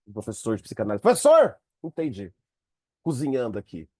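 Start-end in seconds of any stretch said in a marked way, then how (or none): 1.0-2.3 calling out to the teacher with a sudden insight; excited discovery. Retold or imitated. Student sending an audio to the psychoanalysis teacher, excited call. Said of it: "Aí você manda um áudio".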